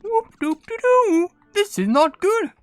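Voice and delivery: very high, slow cartoon voice; worried cartoon figure. Player voicing a cutscene figure's bad news, high mock alarm. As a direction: squeal it in mock dismay, drawn out.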